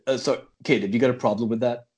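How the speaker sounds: quick, put-on American tough talk; deep American voice. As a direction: play it mildly deep and American. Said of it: "I've got a deep American voice".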